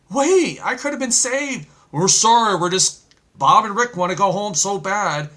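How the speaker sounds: high, loud protest of the left-behind; mock pleading. Left-behind people protesting to God, mock pleading.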